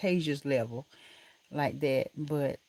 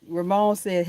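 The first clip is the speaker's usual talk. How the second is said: laughing; 3 semitones higher, 6 dB louder, slower than usual. Real, not acted. Laughing while reading comment.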